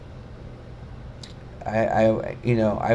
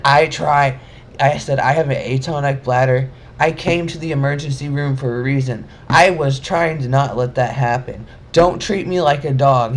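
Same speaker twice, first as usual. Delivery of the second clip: louder, heated insistence; angry protest; 3 semitones higher, 5 dB louder than usual. Retold or imitated. Explaining her bladder to the guard, angry and loud. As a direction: stand up for yourself, heated.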